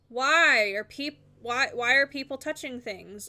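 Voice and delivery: exasperated "why", stretched out and punched. Retold or imitated. Worker venting about a meddled-with queue, exasperated.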